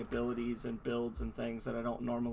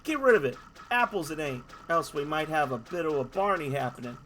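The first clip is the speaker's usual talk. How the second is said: loud, hammed-up Australian bloke; Australian accent; 3 semitones higher, 4 dB louder than usual. Dolphin in an Australian accent complaining about the lighthouse. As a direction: threaten like a rough Aussie larrikin. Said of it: "those players who don't speak Australian".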